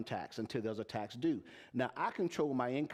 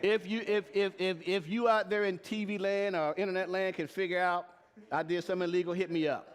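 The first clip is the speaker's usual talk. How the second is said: louder and higher, stumbling start, daring the crowd; loud challenge; 5 semitones higher, 4 dB louder than usual. Real, not acted. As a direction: call out to everyone watching, fired up. Challenging the audience to disprove.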